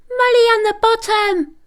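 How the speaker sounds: high, fast squeaky puppy order; small pup giving orders in a squeak. A narrator's reading. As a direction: bark the order like a tiny bossy pup. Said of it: "ordered Peanuts".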